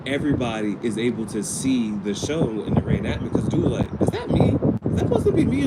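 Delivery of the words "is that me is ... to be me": very high, squeaky disbelief; high-pitched mock outrage; incredulous. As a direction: act out someone aghast, voice shooting way up. Retells coworker's incredulous reaction.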